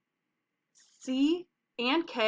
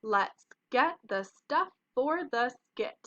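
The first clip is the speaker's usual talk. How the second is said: character's line; 2 semitones higher, slower than usual. Acted. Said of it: "and he says".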